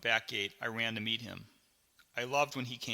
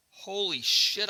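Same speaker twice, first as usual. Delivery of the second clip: high, loud, drawn-out exclamation; shocked; 8 semitones higher, 5 dB louder, slower than usual. Acted. Boy watching dad undo his belt, shocked. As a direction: let the alarm stretch the words.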